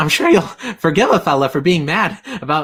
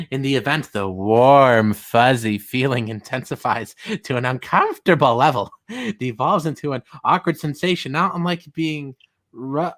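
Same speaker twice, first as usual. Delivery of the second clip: creepy reading; 4 semitones lower than usual. Retold or imitated. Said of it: "He says".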